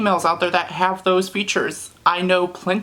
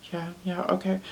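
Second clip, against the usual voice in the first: shy, unsure, timid, barely audible, very quiet; 9 dB quieter than usual. Contrasting confident talk in public with acting it out mock-shy. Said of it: "not being like shy and just being like".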